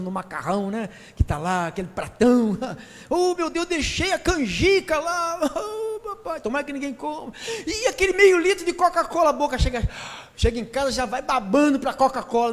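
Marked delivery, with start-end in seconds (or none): 3.1-9.3 mock craving. Voicing craving congregant.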